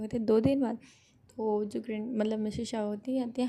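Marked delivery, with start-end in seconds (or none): 0.3-0.8 a louder, startled question about the date; shocked question. Acted. Shahjahan hearing his wedding is in two days, shocked. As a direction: ask it caught off guard. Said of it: "Shah Jahan भी थोड़ा shock होता है".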